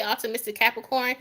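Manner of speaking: quick run-through of the name; fast, run-together name; said really fast. Shown as a demonstration. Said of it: "if you say it really fast".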